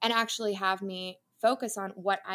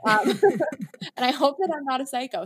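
laughing; 6 semitones higher, 9 dB louder than usual. Real, not acted. Laughing after psycho joke.

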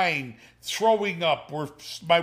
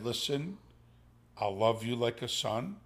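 softer, lower, a touch of a choke; choked up; 5 semitones lower, 8 dB quieter than usual. Retold or imitated. Father telling his future son-in-law to love his daughter, softly choked up. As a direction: hold back tears as you say it. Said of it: "I got a little choked up".

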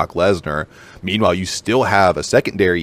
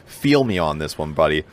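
Pittsburgh accent; 3 semitones lower, 4 dB quieter than usual. Shown as a demonstration. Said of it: "get my Pittsburgh accent out of the way".

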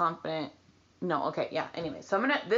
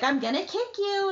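retold threat; 13 semitones higher than usual. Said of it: "and I was like".

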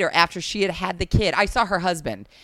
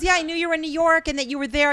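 nosy interviewer, higher; 8 semitones higher, faster than usual. Retold or imitated. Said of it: "She goes".

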